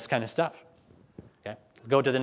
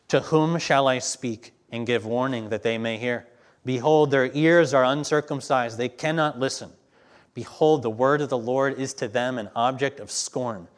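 firm, building proclamation; scripture reading; 4 dB louder than usual. Acted. Preacher reading the Lord's warning aloud, firm and building. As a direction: declare the warning with rising force.

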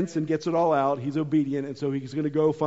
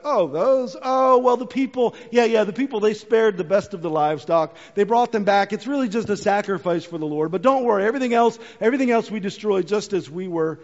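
Saul scrambling to explain the sheep; flustered excuses. Retold or imitated. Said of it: "Saul's response ... is like".

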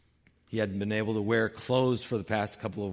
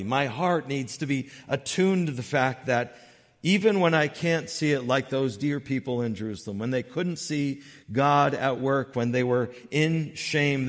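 raised, driving sermon voice; emphatic preaching; 4 semitones higher, 5 dB louder than usual. Real, not acted. Preacher to church on not knowing what's ahead, emphatic preaching. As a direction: preach it higher and louder, phrase by phrase.

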